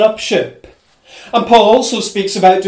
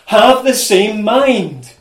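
"same mind" drawn out slowly; emphatic; 2 semitones higher, slower than usual. Retold or imitated. Preacher voicing Paul's repeated appeal, "same mind" slow and emphatic. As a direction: stress "Have the same mind" slowly and firmly. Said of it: "This is Paul emphasizing".

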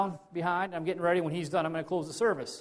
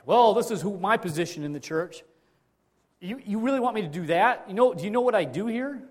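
louder, higher, offended huff; mock indignant churchgoer; 4 semitones higher, 5 dB louder than usual. Proud church member refusing a task, mock indignant.

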